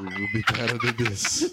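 stuffed-up, congested voice; blocked nose. Real, not acted. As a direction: talk through a blocked nose. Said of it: "my nose is so shit".

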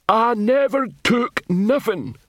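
high, very slow lumbering guard voice; dim guard. Acted. Bulky guard answering the patrician, high and very slow. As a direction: answer slowly like a dim lump.

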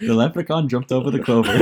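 put-on amateur Irish accent, close to laughing. Friend butchers the leprechaun phrase on a dare, giggly Irish accent. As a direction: have a game go at sounding Irish. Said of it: "throw us your Irish".

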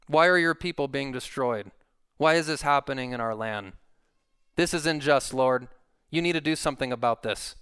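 acted indignant challenge to the Lord; accusing God. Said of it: "as if he's sticking his finger up at God".

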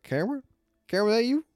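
high questioning call; imagined dad calling out, rising high. Pretend. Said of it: "don't even know what your dad sounds like".

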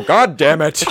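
imitating a friend's funny way of cursing; mock curse in a buddy's odd voice; lightly put-on impression of a cursing pal; Andrew. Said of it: "just the way he says it".

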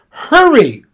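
a sharp, high urging cry; a mysterious voice calling loudly. Acted. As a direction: hurry them on around the corner. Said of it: "urged the voice again".

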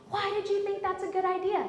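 high, fast indignant challenge; retold losing it. Wife argues with husband over furniture, indignant. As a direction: challenge him in rapid disbelief. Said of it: "And I lost it, lost it".

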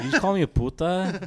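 laughing mock offense. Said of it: "and you're like".

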